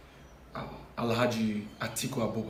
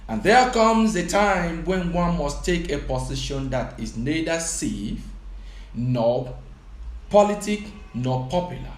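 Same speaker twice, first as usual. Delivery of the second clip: rising oratory, louder on each claim; quoting a speech; 4 dB louder than usual. Acted. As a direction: deliver it like a sermon. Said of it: "He says, and I quote".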